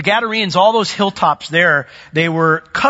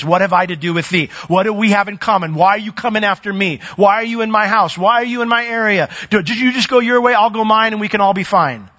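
higher, insistent run of questions; acted protest; 5 semitones higher than usual. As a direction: press each question as the confronted demon. Voicing the demon's protest to Jesus.

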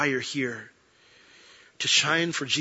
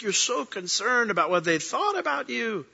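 voice of the Lord; 9 semitones higher than usual. Retold or imitated. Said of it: "And he's like".

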